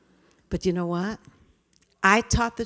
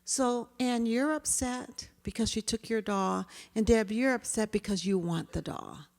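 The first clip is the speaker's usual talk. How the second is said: calm summing up; 4 semitones higher than usual. Shown as a demonstration. Teacher calmly restating both children's feelings. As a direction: restate both sides gently. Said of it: "So I approach calmly".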